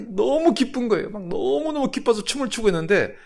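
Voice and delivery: high, excited storytelling; retold overjoyment. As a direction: share the pastor's joy in a high voice. Retelling the pastor's overjoyed dancing.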